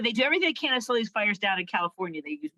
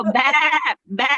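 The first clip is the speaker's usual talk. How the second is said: sheep bleat; 2 semitones higher, 5 dB louder than usual. Shown as a demonstration. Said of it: "Sheep go".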